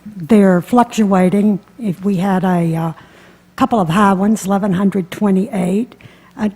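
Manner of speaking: muffled behind a mask; talking through a mask; through a face mask. Real, not acted. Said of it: "I'll talk through the mask".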